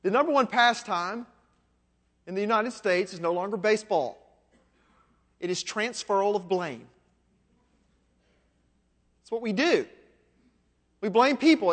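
imitated South Mississippi man, drawn from memory; a touch of Mississippi in the voice; South Mississippi accent. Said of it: "he said it in his own accent".

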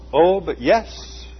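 high, slow, piping, every syllable ending in a vowel; piping accented voice. A narrator's reading. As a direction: stretch it out slowly, piping and high. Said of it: "replied the piping voice with an accent that ended every syllable with a vowel".

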